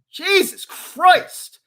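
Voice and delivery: very slow, drawn-out Jesus Christ; weary disbelief, dragging every sound; exasperated groan. Real, not acted. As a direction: sigh it out, fed up. Exasperated after rant.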